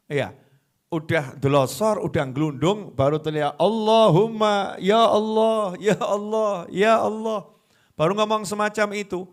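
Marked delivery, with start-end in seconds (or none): 3.6-7.5 desperate cry. Acted. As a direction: cry out to God when cornered. Cornered man crying to God. (seruan putus asa yang keras)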